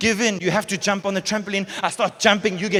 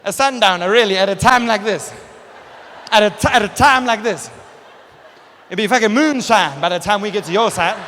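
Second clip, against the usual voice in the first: mock outrage; 2 semitones higher than usual. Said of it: "I'm like".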